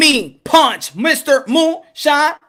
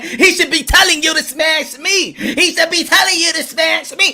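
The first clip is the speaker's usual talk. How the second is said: acted jealous complaint; 3 semitones higher than usual.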